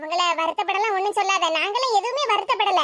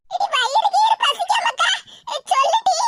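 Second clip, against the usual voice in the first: put-on high, loud old granny calling out in alarm; fretting aachi, voice pitched up and pleading; worried grandmother; 12 semitones higher, 3 dB louder than usual. Grandmother fussing over the sobbing girl, high anxious call.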